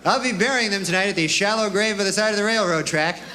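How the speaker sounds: lightly formal, dutiful report; mock devil's servant. Killer reports back to the devil, mildly mock-solemn. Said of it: "you go back to the devil".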